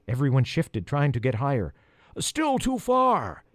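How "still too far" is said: high, long-drawn call. A narrator's reading. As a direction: stretch the words out to carry down. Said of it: "Jackson called".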